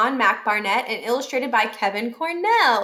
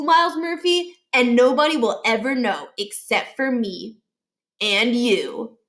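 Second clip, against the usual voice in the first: lightly voiced bully kid, smug and threatening; a hint of a boastful bully making threats; bully Josh threatening.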